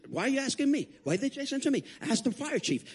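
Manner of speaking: high-pitched, put-upon protest; annoyed official. Retold or imitated. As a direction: complain as an official passing the buck. Police chief passing him on.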